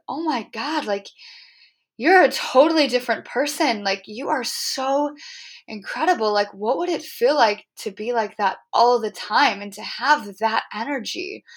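amazed gushing. Retold or imitated. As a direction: retell the awe of seeing her transformed. Retelling her amazement at Megan.

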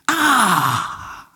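long drawn-out "ah" falling in pitch; mock frustrated cry, sliding down; exasperated groan. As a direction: let out a long reluctant groan. Angry parent reacting to being calmed.

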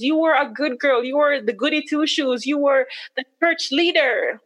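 retold berating of oneself, pitch climbing; self-reproach. Wife retelling how she blamed herself for missing it, self-reproach. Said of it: "I just felt really stupid".

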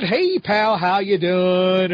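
mock friendly greeting. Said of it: "or any kind of preface like that".

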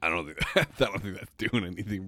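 chocolate in the mouth; speaking with a mouthful; eating chocolate. Real, not acted. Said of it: "Get the chocolate out of your mouth".

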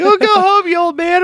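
high put-on kid voice; jeering thirteen-year-old. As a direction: imitate a taunting young gamer. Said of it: "from all these thirteen-year-olds".

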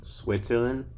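questioning rise on Switzerland. Real, not acted. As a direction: say it as if asking, unsure. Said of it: "you said it like a question".

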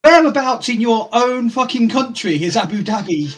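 slow, high exasperated question. Retold or imitated. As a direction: spell out his stupidity slowly. Scolding the worker.

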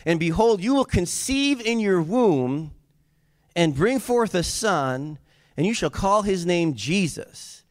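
high, slow declaration; angel's proclamation. Acted. Preacher voicing the angel's announcement to Mary, high and slow. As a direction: proclaim it in measured, lifted phrases. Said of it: "the angel said that".

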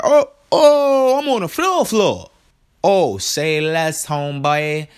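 high, loud excited burst; can't contain the joy of floor seats; thrilled. Real, not acted.

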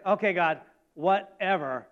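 mock dismissive brush-off; acted offhand, unimpressed reply; dismissive eye-roll. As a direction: say it as if rolling your eyes. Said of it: "they just rolled their eyes".

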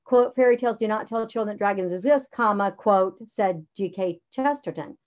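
dictated correct version, quote marks spoken; right way. Shown as a demonstration. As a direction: read it as the correct model.

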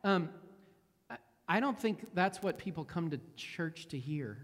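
imitating a kind, tactful objection; gently kind. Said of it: "She said it very kindly".

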